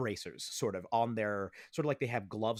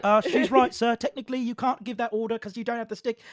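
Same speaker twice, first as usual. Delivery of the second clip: timid soldier; 10 semitones higher, 8 dB louder, faster than usual. Acted. GM voices soldier correcting leader.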